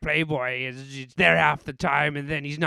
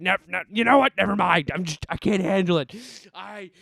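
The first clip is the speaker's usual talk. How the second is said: frustrated. Real, not acted. Rant breaks off in frustration.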